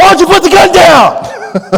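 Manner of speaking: put-on very high, drawn-out, stretched-out yelling. Retelling a standoff shouting through a closed door: imitating own screaming. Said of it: "I was screaming".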